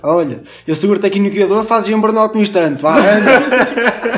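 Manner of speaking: rising, hyped-up urging, slowing at the end; excited egging on. Retold or imitated. Friend quoted urging a burnout. (a incitar, cada vez mais agudo, a rir)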